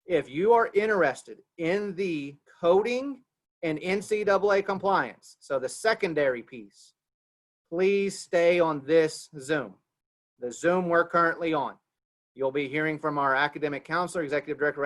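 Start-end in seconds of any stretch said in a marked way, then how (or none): 0.1-11.8 slow, emphatic announcement with clear breaks; careful, spaced-out instructions; very slow, deliberate. Real, not acted. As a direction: say it slowly so everyone catches it. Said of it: "I'm gonna say this very slowly".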